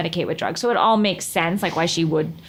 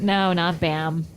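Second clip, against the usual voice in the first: slow drawn-out denial; 4 semitones lower, much slower than usual. Real, not acted. Teasing about the name.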